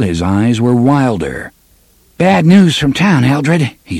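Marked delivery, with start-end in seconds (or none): 2.2-3.7 loud, high urgent news; urgent call. Acted. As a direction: burst in with bad news. Man bursts in urgently.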